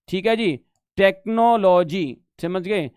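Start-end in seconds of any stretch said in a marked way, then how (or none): 1.0-2.2 टेक्नोलॉजी spelled out slowly, syllable by syllable; drawn out so students catch टेक्नोलॉजी; slow clear repeat. Shown as a demonstration. Teacher slowly repeating टेक्नोलॉजी to the class. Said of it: "प्रौद्योगिक मतलब टेक्नोलॉजी".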